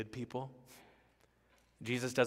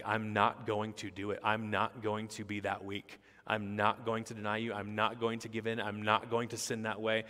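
repeated firm stress on "not"; insist, leaning on each "not" at an everyday volume; emphatic. Retold or imitated. Peter insists he won't deny Jesus, mildly emphatic. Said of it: "he said emphatically".

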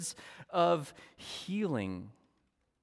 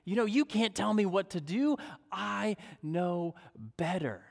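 higher, louder, fast mock indignation as Peter; proud indignant Peter; 6 semitones higher, 4 dB louder than usual. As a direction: huff like a proud fisherman told how to fish. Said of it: "This is Peter thinking".

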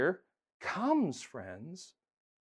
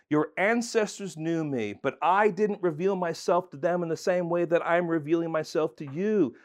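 voicing God; 3 semitones higher, 4 dB louder than usual. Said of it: "God is saying".

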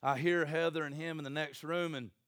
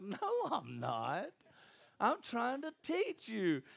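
insistent father; 5 semitones higher, slower than usual. Retold or imitated. Father answering his wailing son.

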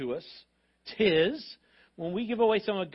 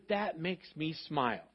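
gentle God; 4 dB quieter than usual. Retold or imitated. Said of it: "God says".

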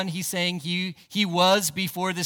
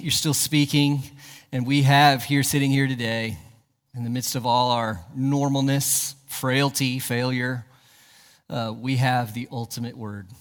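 earnest prayer, lower than the preaching; public prayer; 4 semitones lower than usual. Real, not acted. Leads the congregation in prayer.

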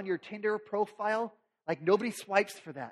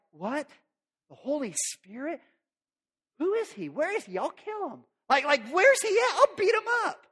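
high, rising outrage; outraged; 8 semitones higher, 4 dB louder than usual. Acted. Joey furious at the Holy Spirit, high and loud. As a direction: freak out and threaten. Joey freaking out over news.

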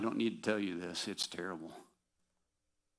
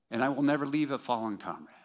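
raised, ringing vow; proclaiming creed; 4 semitones higher, 4 dB louder, faster than usual. Retold or imitated. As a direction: proclaim it like a soldier.

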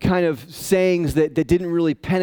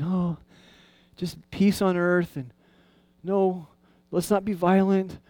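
mock soft-spoken guy; 2 semitones higher than usual. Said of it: "kind of soft-spoken guy".

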